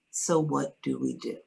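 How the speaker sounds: soft, composed and simple question; calmly. Retold or imitated. Retelling how she answered the diagnosis, softly calm. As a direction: keep it quiet and steady, no fear. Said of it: "I simply said".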